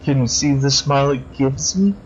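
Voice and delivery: lightly voiced creepy killer, silky and mocking; creepy villain. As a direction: purr over the victim like a polite psychopath. Crosscut threatens with smiles.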